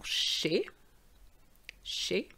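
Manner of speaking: chez as 'shay', no z; silent Z. Shown as a demonstration. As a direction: end chez on a clean French é. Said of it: "not to pronounce the Z".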